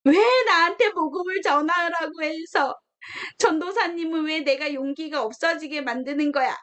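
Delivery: put-on child griping at the preacher, half-crying; whiny complaint. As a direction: complain like a sulking kid. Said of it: "막 이렇게 불평하고".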